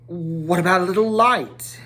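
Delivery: timid little request; apologetic. Acted. Bilbo asks the dwarves, lightly apologetic. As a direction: ask sheepishly, hoping not to offend. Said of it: "said Bilbo apologetically".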